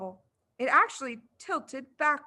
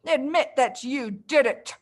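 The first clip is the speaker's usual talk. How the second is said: angry demand; 2 semitones higher, 4 dB louder than usual. Acted. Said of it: "roared the Trunchbull".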